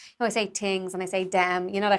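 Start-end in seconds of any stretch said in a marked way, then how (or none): 0.5-0.9 "tings" said with a hard T in place of TH; dropped TH. Shown as a demonstration. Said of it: "I don't pronounce my T H's". 1.2-1.7 "them" said with a T-like sound in place of TH; dropped TH. Shown as a demonstration. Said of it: "I don't pronounce my T H's".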